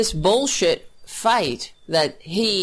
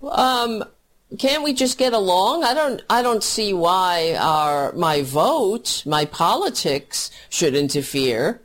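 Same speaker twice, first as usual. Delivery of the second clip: mock clueless voter; 4 semitones higher than usual. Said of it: "will be like".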